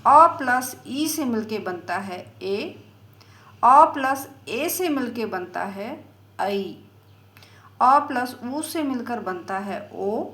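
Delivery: अ plus ई spelled out slowly; slow teaching demo. Shown as a demonstration. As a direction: dictate the vowel sums step by step. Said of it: "जैसे ए". (धीरे-धीरे समझाते हुए)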